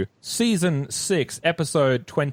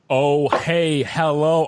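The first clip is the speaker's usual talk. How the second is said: mock American accent; much slower than usual. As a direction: joke American greeting in place of British. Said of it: "an American".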